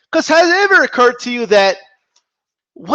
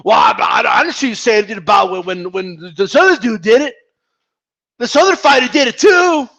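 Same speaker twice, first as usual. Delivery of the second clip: lightly voiced stammering fanboy protest; half-hearted fanboy impression; mock fanboy. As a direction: sputter out the excuse in a mild mock yell. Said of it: "your only argument is".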